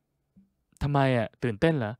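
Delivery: a hint of a deep-voiced guy, drawn out; deep male voice. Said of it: "เป็นเสียงผู้ชายที่เสียงเข้มๆหน่อย".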